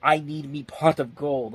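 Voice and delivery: leprechaun. Retold or imitated. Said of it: "whenever you hear him scream out".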